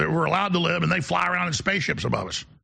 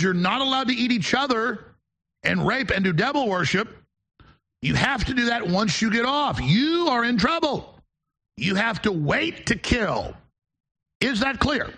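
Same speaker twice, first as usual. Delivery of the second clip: mock stern official; 5 semitones higher than usual. Mocking authorities scolding migrants.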